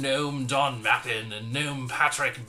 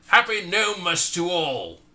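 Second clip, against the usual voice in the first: exclaimed; 5 semitones higher, 4 dB louder than usual. Acted. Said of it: "I finally exclaimed".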